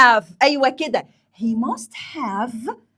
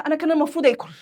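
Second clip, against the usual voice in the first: acted self-blame, a little higher; self-reproach; 4 semitones higher, 3 dB louder, much faster than usual. Hungry worker blaming herself for skipping food, self-reproach. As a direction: scold yourself mildly, pitched up. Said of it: "أنا بلوم نفسي".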